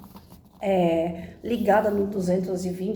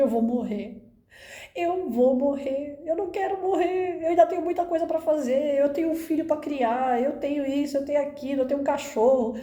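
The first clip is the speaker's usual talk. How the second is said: higher, mock-tearful pleading; retold crying plea; 6 semitones higher than usual. Patient begging the doctor in tears, mildly acted. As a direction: replay the panic of the crying fit, lightly. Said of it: "Chorava e falava e falava".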